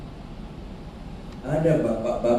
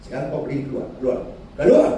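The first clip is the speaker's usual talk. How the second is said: snapping at him; faster than usual. Retold or imitated. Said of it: "Saya bentak".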